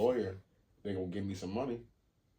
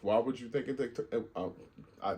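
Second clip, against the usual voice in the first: stuttering. Real, not acted. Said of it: "that got me stuttering".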